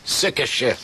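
chuckling through it; laughing. Real, not acted. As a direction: laugh as you repeat it.

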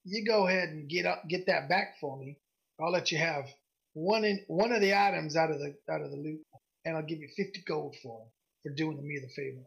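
lightly voiced gruff merchant striking a bargain; a hint of gruff woman shopkeeper. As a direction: haggle in a mildly gruff voice. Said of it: "she's got this gruff voice".

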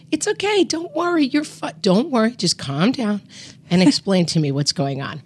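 high, soothing reassurance; calming sister. Retold or imitated. Sister soothing her frantic sibling on the phone, high and calming. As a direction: talk her down gently from panic. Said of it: "was like".

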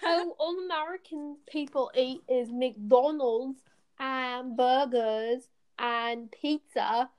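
drawn-out, slightly British mimicry; mock British accent. British person about American food, mock British accent. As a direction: slowly imitate a British complainer. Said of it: "but when they're like".

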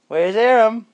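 high, loud sing-song question; playful baby talk. Acted. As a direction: tease the baby where he's hiding. Peekaboo game with baby.

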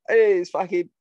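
high, loud excited fan voice; starstruck fan. Retold or imitated. Friend imitates trolls turned fans at an expo, high and loud. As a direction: gush like a fan spotting a star. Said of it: "they'd all be like".

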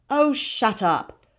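put-on a mildly cross boy calling back; irritable. A narrator's reading. Boy answers his calling sister, irritable. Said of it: "called William irritably".

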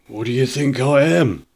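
indignant shopkeeper, pitch rising; growing anger. A narrator's reading. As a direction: start to get angry, not yet shouting. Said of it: "begin quietly and grow more angry".

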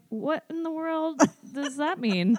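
mock baffled celebrity voice; baffled Brad Pitt. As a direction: stretch it out, puzzled and high. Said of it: "he was like".

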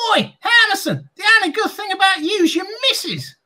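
high, shouted mock heckle; heckling fan. Fan mocking Harmison about his wife, high shouted jeer. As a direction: jeer from the crowd.

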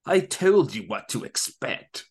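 a hint of a smug villain; lightly voiced villain. Mad Hatter voiced in retelling.

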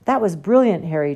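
mildly delighted, half-laughing praise; chortling. Acted. Ron praises Harry after the detention, chortling lightly. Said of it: "chortled Ron".

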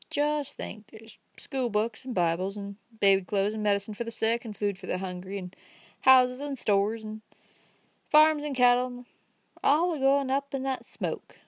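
a lightly voiced old country man, rising as he goes; folksy old fellow building up his point, slowing at the end; old Uncle Bobby. Old man lecturing the young man about smoking, lightly voiced and folksy.

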